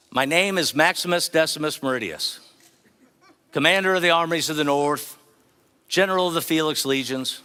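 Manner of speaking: loud movie-hero declaration with a mock accent; Gladiator quote with accent. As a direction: proclaim it like Maximus in the arena. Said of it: "I'm gonna try to do the accent".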